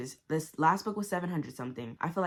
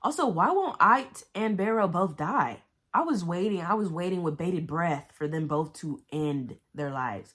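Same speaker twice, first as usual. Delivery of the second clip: loud rant; 5 dB louder than usual. Real, not acted. Ranting about survivors.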